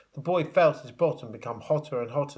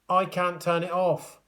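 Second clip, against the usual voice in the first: higher, flustered cry; mild cry; 6 semitones higher than usual. A narrator's reading. George struggling with the spraying extinguisher, flustered. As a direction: call it out helplessly. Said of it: "cried George".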